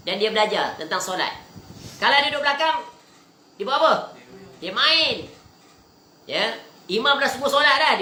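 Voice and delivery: scolding lecture with comic mimicry; animated preaching. Real, not acted. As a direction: preach it high and lively to the congregation. Preaches about children at prayer.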